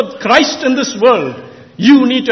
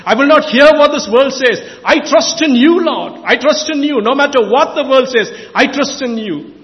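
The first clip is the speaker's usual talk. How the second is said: crying out to God; 3 semitones higher than usual. Shown as a demonstration. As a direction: call out to the Lord in trust. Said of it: "Cry out and say".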